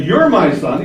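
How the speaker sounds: You're lifted above the rest; stress on You're. Shown as a demonstration. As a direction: lean on the word You're. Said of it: "He doesn't say".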